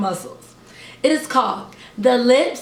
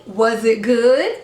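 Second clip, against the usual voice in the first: gentle question; 4 semitones lower, slower than usual. Shown as a demonstration.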